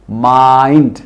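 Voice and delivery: माइंड with a full ai glide; correct pronunciation. Shown as a demonstration. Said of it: "diphthong की sound". (माइंड पूरे आइ के साथ)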